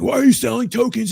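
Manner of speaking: lightly voiced petty dev; mock dev complaint. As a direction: mimic an annoyed developer. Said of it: "He's like".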